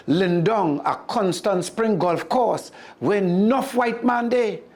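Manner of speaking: sly Anansi. Acted. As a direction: coax him like a smooth con man. Anansi reassures Mongoose.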